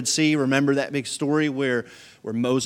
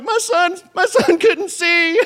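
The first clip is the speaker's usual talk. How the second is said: mock crying mom; 8 dB louder, slower than usual. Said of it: "she starts crying her eyes out".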